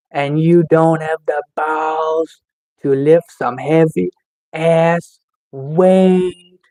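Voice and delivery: measured, drawn-out dare; slow, emphatic goading; slow taunting. Real, not acted. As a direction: draw out each taunt deliberately.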